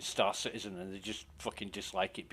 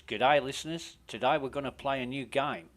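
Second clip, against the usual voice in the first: rough Australian radio host patter; upbeat Australian DJ, self-mocking; jokey Australian presenter voice; Australian accent; 3 semitones higher, 3 dB louder than usual. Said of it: "my Australian accent's shit".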